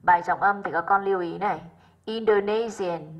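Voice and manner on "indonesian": "Indonesian" with the stress on "ne". Shown as a demonstration. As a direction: lean on the third syllable of "Indonesian". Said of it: "rơi vào ne".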